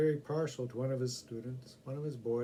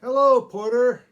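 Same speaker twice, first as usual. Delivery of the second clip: loud high call across the car; a gentleman calling across the car; 10 semitones higher, 17 dB louder than usual. Acted. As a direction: sing out to the porter. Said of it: "sang out a gentleman".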